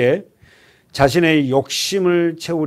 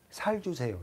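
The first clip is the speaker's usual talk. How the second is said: Gyeongsang "살 주세요", soft s and much softer; a quiet Gyeongsang imitation; Gyeongsang accent; 2 semitones higher, 14 dB quieter than usual. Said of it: "경상도 사람은 발음을 쌀자를 못합니다". (경상도식으로 조용하게 "살 주세요")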